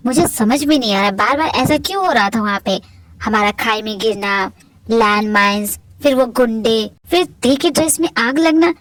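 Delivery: lightly voiced low, puzzled man; brooding singer. The singer alone, puzzling over the strange incidents, low and brooding.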